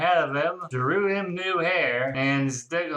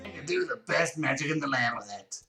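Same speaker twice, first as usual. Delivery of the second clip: cringe hero voice; faster than usual. Acted. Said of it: "I'm not gonna keep doing that voice".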